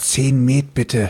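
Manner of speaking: whispering very quietly, soft and hushed. Ordering drinks in a role-play scene, whispering very quietly into someone's ear. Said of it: "ich flüstere hier nur ganz leise ins Ohr".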